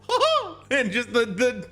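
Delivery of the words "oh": a high, drawn-out "oh", half laugh; mock creepy laugh; creepy Mickey laugh. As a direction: let out a creepy cartoon-mouse chuckle. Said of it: "this creepy ass laugh the whole time".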